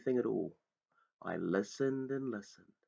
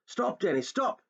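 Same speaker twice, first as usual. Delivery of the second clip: shouting; 11 semitones higher than usual. Acted. Father warning his son away from the pit, shouting. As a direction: stop him before he falls. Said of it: "he shouted".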